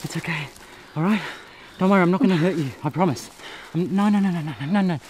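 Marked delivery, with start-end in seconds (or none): 0.0-0.5 soft shushing to calm him; hushing softly. Acted. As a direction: hush him like a spooked animal. Calming a frightened naked man.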